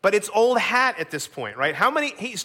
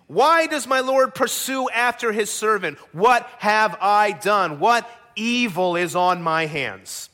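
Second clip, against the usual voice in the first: loud, slow, pleading questions; wronged servant's acted anguish; anguished David; 2 semitones higher, 3 dB louder than usual. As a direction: plead your innocence with a touch of anguish. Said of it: "you can hear the anguish in his voice".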